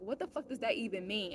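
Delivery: mildly irritated retold question. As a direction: recall your irritation, without raising the volume. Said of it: "I was irritated".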